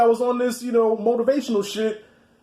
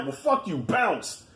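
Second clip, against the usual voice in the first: dismissive; 3 semitones lower, 5 dB quieter, much slower than usual. Retold or imitated. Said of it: "That was the attitude".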